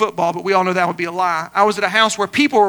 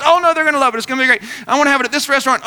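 higher, mock-eager brushing aside of objections; imitated breezy insistence; 3 semitones higher, much faster than usual. Woman dismissing pastor's worry about her cats, imitated eagerness. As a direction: gush on over the other person.

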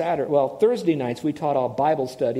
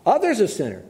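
a touch of indignant self-defence; indignant denial; 4 semitones higher than usual. Retold or imitated. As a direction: protest your own goodness. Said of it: "I'm telling you this as he said it".

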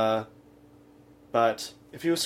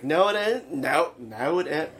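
fake Scottish accent; 4 semitones higher than usual. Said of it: "No, wait, let me get this right".

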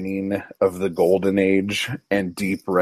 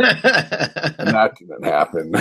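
laughing through the words, slowed; slower than usual. Real, not acted. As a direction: chuckle while saying it. Laughing at a shared joke.

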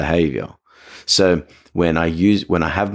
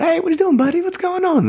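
very high, bright hello to a dog; upbeat greeting. Shown as a demonstration. Handler perking up a flat dog, squeaky high hello. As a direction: lift a flat dog's mood with a squeaky hello. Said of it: "If the dog's a little bit flat".

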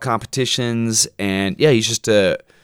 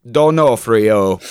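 D'Onofrio in a slow, flat robot voice; D'Onofrio spoken like a machine; 4 dB louder, much slower than usual. Shown as a demonstration. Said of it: "in the robot voice".

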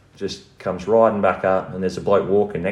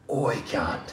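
muted, softer retold call-out; held-back yell; 4 semitones higher, 7 dB quieter than usual. Homeowner challenging the man in the neighbour's car, held-back yell. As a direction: call out but keep the volume down. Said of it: "At the top of me".

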